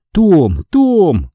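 repeated high call of a name; crying out. A narrator's reading. Girl calling Tom lost in the flames, crying out. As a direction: call after him, pitch climbing. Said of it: "закричала она".

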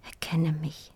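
very soft whisper, pleading; silent plea. Acted. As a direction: beg without a sound. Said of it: "schrie mein Blick".

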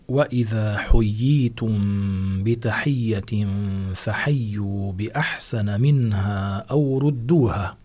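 slow, measured recitation of a verse; Quran recitation. Acted. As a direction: recite the verse slowly and reverently. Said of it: "قال الله تعالى".

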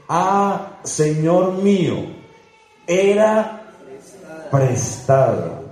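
lamento agudo y alargado, voz que sube en "era"; quéjate como quien perdió algo prestado. Acted. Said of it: "es una, un lamento". (el hombre se lamenta ante Eliseo, con voz quejumbrosa y aguda)

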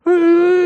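long high howl of terror; a tortured young man howling, very high; howling wail. Acted. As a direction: let out a drawn wail. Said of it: "завыл Белобрысый".

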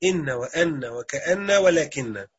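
إن وأن وكأن ولكن slowly, each نون held doubled. Shown as a demonstration. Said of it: "مختومين بالنون المشددة".

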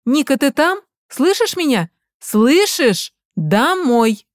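high, loud frantic calling; angry mother demanding her daughter come home; yelling down the phone. Acted. (кричит в телефон)

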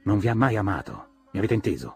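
loud, urgent shout at Tom. Acted. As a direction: yell it in his face, insisting. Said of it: "urlò".

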